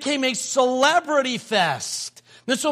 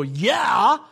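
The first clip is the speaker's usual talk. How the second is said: enthusiastic yeah. Shown as a demonstration. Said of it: "there's a way to open a gift and go".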